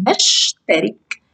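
نشترك read slowly with the نش syllable held. Shown as a demonstration. Teacher isolating the sukun syllable, slowly. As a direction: slowly break نشترك into parts. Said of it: "آخد الحرف الساكن والحرف الذي قبله".

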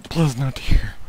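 whispered plea, half joking; playful whispered please; mock tender whisper. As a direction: hush them like comforting a crier. After friend says already crying.

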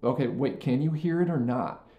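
pointed, genuine check that wants a true answer; a teacher who truly means the question; earnest probing question. Shown as a demonstration. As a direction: stop and really ask, pressing on "or not". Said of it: "just say".

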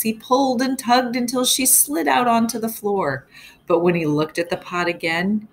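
put-on lively read-aloud storytelling for kids; story narration. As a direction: tell it to the class with suspense. Teacher reads story aloud.

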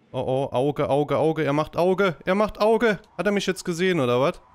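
growing alarm as the eye turns; panicked alarm. Real, not acted. Alarm as enemy spots him.

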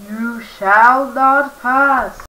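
slow grand wizard proclamation; slow Gandalf voice. Acted. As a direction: draw out every word, wizard-like. Gandalf's famous line.

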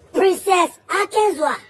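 slow, loud shout of the name; slow announcing shout. Real, not acted. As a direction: call the name out slowly. Announcing foundation names.

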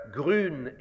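grün with a rounded German ü; German grün, lips rounded; German pronunciation. Shown as a demonstration. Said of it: "would become green in Yiddish".

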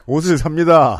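barked boot camp declaration; drill instructor speech. Pretend. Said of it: "유격 조교 말투잖아요".

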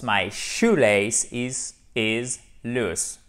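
slow model sentence, LOOSE closed on a sharp S; S sound in loose. Shown as a demonstration. Teacher repeating the example slowly, S ending on LOOSE. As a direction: end "loose" on an unvoiced S. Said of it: "Faut faire cette différence".

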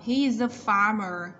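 "He's a farmer" with the z of "He's" linked into "a"; slow, linked demo of "He's a farmer"; linked sounds. Shown as a demonstration. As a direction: model "He's a farmer" slowly and loudly, joining "He's a". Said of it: "nối âm".

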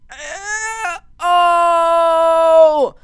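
shrill, loud oh of shock; high surprised shout. Real, not acted. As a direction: yelp as it nearly goes wrong. Near-miss in the game.

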